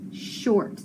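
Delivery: short A sound; short vowel. Shown as a demonstration. Teacher showing students a short A sound. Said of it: "The A has to be".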